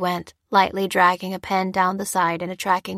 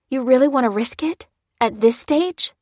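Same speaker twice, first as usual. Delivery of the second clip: protesting; 5 semitones higher, 3 dB louder than usual. A narrator's reading. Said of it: "protested Lucy".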